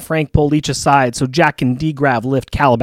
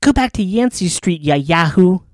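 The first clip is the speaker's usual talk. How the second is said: gruff tough-guy impression, lightly done; Unca Benji voice; 3 semitones higher than usual. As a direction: growl it like a street-tough uncle. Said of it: "what his Unca Benji might say".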